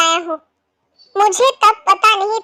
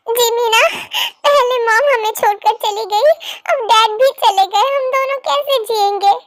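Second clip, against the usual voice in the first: crying; 2 semitones higher than usual. Acted. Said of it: "रो मत please".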